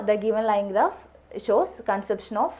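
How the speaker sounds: very slow, word by word; model answer, slowly. Shown as a demonstration. Teacher models the exam answer for learners, slow and deliberate. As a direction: spell out the sample sentence for students. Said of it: "അതാണ് നമ്മൾ heading പറയേണ്ടത്".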